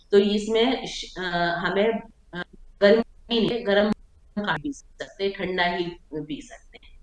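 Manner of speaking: choppy breaking-up call audio; dropping out like a bad line; voice cutting out. Real, not acted. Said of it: "ma'am, आवाज़ cut रही थी".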